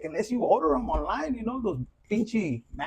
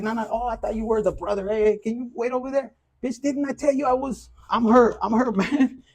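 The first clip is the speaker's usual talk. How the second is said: mock jealous boyfriend; 4 semitones higher, 4 dB louder than usual. Acted rival confrontation over woman.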